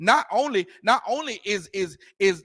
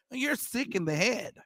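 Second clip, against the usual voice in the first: mock white American accent, softer; careful white-person diction, softer with a questioning rise; white person's accent; 5 dB quieter than usual. Preacher imitating a white person for contrast, mock white accent. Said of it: "never heard a white person say".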